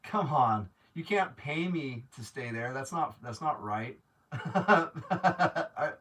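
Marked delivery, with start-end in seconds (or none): 4.3-6.0 a burst of helpless, overwhelmed laughter; laughing in disbelief at the kindness; real laugh. Real, not acted. Laughing as a viewer offers her rental.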